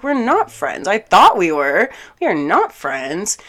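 loud, emphatic retold rebuttal; indignant denial. Telling him the friendship is over, indignant. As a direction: act out cutting off a friendship, stressing each point.

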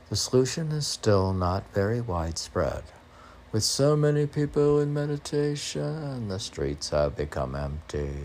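measured recital of a poem; steady spoken-word poem delivery; poem reading. Acted. Reads her poem aloud.

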